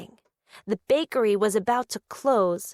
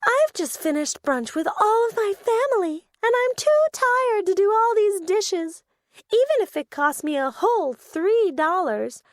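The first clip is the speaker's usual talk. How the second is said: tired voice; 7 semitones higher than usual. Acted. Tired character complains.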